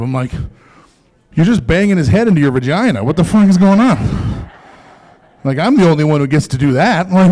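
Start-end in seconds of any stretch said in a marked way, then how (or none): 1.3-4.5 shocked outburst. Retold or imitated. Comic to girlfriend, staged shocked yell. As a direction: shout it in mock horror. Comedian acting out shocked reply.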